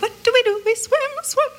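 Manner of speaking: very high, squeaky cartoon fish voice; high cartoon voice answering its own question. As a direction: pitch way up like a tiny cartoon fish. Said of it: "And they're just like".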